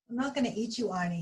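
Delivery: calm the donut down; reassuring. Acted. Mister Bing reassures frightened Arnie, soft and gentle. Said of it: "he said reassuringly".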